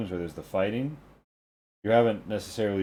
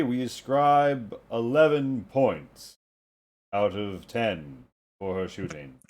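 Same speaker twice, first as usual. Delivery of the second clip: toga-clad judge; 2 semitones higher than usual. Acted. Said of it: "a man in a toga walks out and says".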